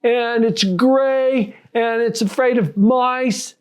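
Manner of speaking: high, drawn-out imitated teen hints; imitated kid coaxing out an answer; hinting teen. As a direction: play a teen listing clues slowly. Acting out teen dropping hints.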